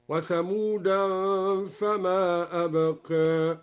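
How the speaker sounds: وثمودا with the tanwin sounded, thamudan, slow; tanwin demo. Shown as a demonstration. Teacher demonstrating the nunated reading, slow recitation. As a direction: end وثمودا on a clear -an, slowly. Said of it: "بتنوين ثمود ... هكذا".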